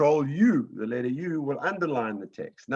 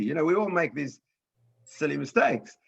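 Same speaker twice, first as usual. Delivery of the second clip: normal talking voice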